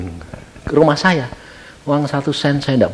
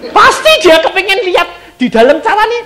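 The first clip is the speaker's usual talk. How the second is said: amazed wonder; 4 dB louder than usual. Acted. Amazed retelling.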